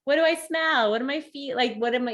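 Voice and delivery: mild sing-song sense check; naming the senses. Shown as a demonstration. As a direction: playfully point out what you notice on a walk. Demoing a mindful walk naming things.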